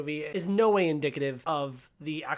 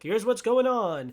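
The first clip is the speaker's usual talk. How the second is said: mock reveal; 7 semitones higher, 7 dB louder, slower than usual. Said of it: "of course there's gonna be a twist".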